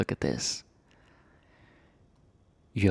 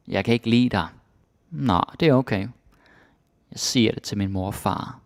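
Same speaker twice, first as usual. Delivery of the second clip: put-on bickering kids; 3 dB louder than usual. Child quarrel dialogue acted.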